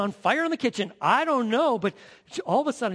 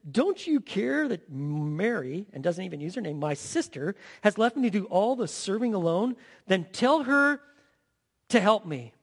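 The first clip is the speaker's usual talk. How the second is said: angry demand. Acted. Martha storming in, demanding Jesus send Mary, angry. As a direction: snap the order at the end. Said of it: "She blows in there and she says".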